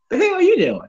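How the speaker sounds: high, loud snapping question; mock country dude confronting the worker; imitated angry customer. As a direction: bark it at the barista.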